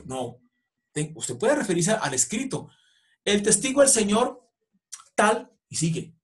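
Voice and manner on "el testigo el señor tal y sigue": raised, lively courtroom plea; expressive lawyer. Shown as a demonstration. Lawyer addressing the judge in an expressive tone. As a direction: argue it with life, pitch up. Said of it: "sea expresivo".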